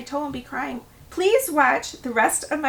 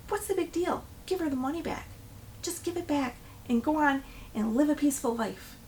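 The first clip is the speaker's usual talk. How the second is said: softer, slightly raised, soothing advice; imitated calm reassurance; 3 semitones higher, 6 dB quieter than usual. Husband advising his panicked wife on the phone, calming. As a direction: talk someone down gently.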